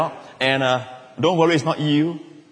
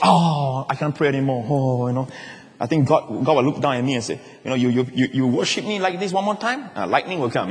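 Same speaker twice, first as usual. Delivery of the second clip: mock fretful worshipper; 4 semitones lower, 3 dB quieter than usual. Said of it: "just don't be extra".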